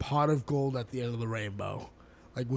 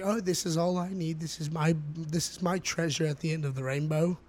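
put-on muddled British-slash-Australian accent; 3 semitones higher than usual. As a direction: attempt an accent somewhere between British and Australian. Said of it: "a British slash Australian accent there".

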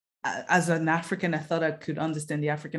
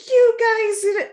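high, loud put-on accuser; mock accusing voice; 9 dB louder than usual. Retold accuser blaming her, high and loud. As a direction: play the angry man blaming her, pitched up and loud.

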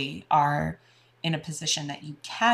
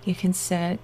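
guided meditation. Acted. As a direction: soothe them into relaxation.

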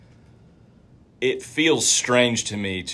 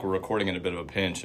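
talking while chewing a snack; mouth full; 3 semitones lower, 7 dB quieter than usual. Real, not acted. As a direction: speak around a mouthful. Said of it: "I'm eating my snack".

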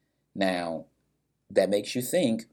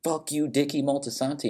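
imitated cursing; 8 semitones higher than usual. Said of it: "Junior starts cursing".

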